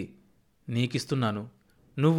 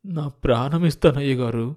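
moved. A narrator's reading. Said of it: "నరసింహకు గొంతు ఆర్ద్రమైంది".

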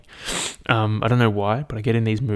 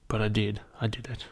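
whispered confession; 7 dB quieter than usual. Real, not acted. Sheepish admission after swearing off.

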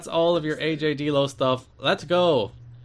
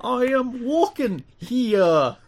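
high, slow mock-fantasy New Yorker; hammed-up mystical voice; mystical D&D character; 10 semitones higher, 3 dB louder, much slower than usual. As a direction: intone it like a bad role-player. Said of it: "this was the voice he gave".

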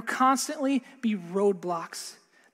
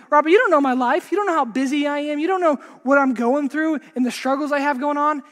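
mock-defensive protest, a little raised; mildly offended; 4 semitones higher, 5 dB louder than usual. Offended listener objecting to the preacher about a busy life, mildly indignant. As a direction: push back as if slightly offended. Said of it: "get a little bit offended".

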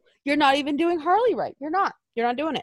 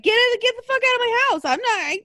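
imitating Bray; 7 semitones higher than usual. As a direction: squeal it out like an offended puppet maker. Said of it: "I bet Bray's like".

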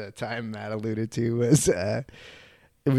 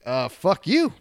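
raised, higher retold comeback; indignant retort; 7 semitones higher, 6 dB louder, slower than usual. Teller answers rude neighbor's insult, mock indignant retort. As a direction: throw it back, taken aback.

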